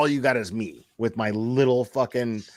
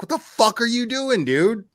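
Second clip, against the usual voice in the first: high, louder exasperated yell; retold yelling; 12 semitones higher, 4 dB louder than usual. Host re-enacting yelling at Michael privately, exasperated high yell. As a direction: yell it at him, pitched way up. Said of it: "I yelled at him privately".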